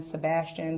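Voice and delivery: Sebastian said in place of Siobhan; mispronounced name. Retold or imitated. Listing wrong names people call her, Sebastian as seh-BAS-chun. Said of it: "so I get called".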